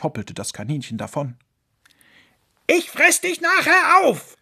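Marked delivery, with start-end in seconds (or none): 2.7-4.4 much higher, louder yelled threat; threatening shout. Acted. Fox shouting after the fleeing rabbit. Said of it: "rief ihm der Fuchs hinterher".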